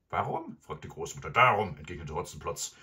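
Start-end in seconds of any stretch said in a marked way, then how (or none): 0.1-0.6 put-on high, loud old-lady question; questioning grandmother. 1.3-1.8 very loud, gruff shout; curt robber retort. Acted. Robber snaps back at question.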